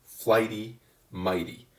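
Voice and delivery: "Flighty, mighty" with flight and might stressed; stress on first syllables. Shown as a demonstration. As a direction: set the two words apart, first syllables strong. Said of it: "the flight and the might syllables are the stressed syllables".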